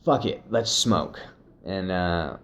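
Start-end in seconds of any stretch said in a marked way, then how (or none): 0.0-1.2 retold burst of enthusiasm; stoked. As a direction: get fired up, then decide on the spot. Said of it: "he's getting all stoked about it".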